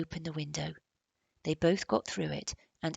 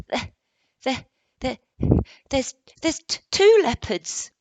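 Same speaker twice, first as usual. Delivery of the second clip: shaky whisper; 8 semitones higher, 13 dB louder than usual. Acted. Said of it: "gave a shaky whisper".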